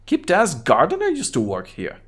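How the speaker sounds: Kuno voice. Acted. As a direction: toss off the name like a bored kid. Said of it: "What is wrong with your high voice?".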